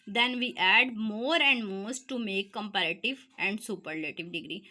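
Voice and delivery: reads each English word slowly for notes; teacher dictating the rule to students, slow and deliberate; slow dictation read. Shown as a demonstration.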